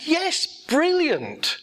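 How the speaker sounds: slow, drawn out. Retold or imitated. Repeats the cheerful reply.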